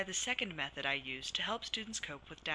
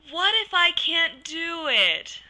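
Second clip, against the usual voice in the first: high, slow, loud whine; whiny dramatic doubt; 12 semitones higher, 14 dB louder, slower than usual. Shown as a demonstration. Counselor demonstrating a silly doubt voice, whiny and dramatic. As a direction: wail the doubt like a whiny child. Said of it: "Using a whiny, dramatic voice".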